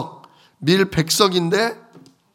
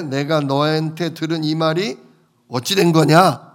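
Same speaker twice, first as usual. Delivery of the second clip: scolding; 3 dB louder than usual. Acted. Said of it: "막 야단을 치는 거죠".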